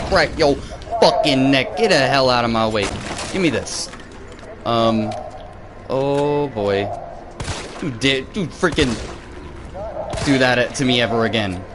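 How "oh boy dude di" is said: normal talking voice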